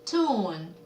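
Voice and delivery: "cartoon" split into car and a drawn-out toon; syllable by syllable. Shown as a demonstration. Teacher answering a vocabulary question, "cartoon" broken by syllable. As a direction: sound out "cartoon" in two separate halves. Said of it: "만화는요?".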